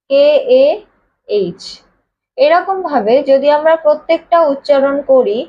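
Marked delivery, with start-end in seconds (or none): 0.1-1.6 কেএএইচ stretched with an audible h at the end; breathy h ending. Shown as a demonstration. Teacher showing the hidden h sound, drawn out. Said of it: "লাস্টে কি উচ্চারণ বেরোচ্ছে?".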